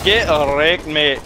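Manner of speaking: put-on Scottish accent. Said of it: "I'm good at Scottish accent".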